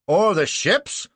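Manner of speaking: high, loud, drawn-out challenge; bawling. A narrator's reading. Prosecutor protests to the adjudicator, bawling. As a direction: bawl it across the courtroom. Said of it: "bawls Clitheroe".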